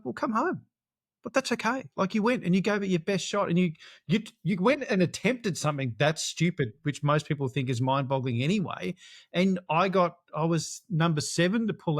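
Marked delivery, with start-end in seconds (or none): 0.0-6.7 higher, gentle voicing of his wife on the phone; wife reassuring. Wife on the sat phone telling him to come home, high and gentle. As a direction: talk him down kindly, lifted up high. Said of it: "She's like".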